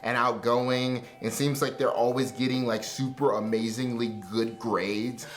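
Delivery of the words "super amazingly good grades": ordinary talk, nothing marked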